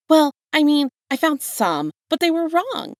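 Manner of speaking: high, loud, offended; indignant outburst. A narrator's reading. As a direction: burst out as if wounded by the mistake. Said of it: "He hissed the word like it burned".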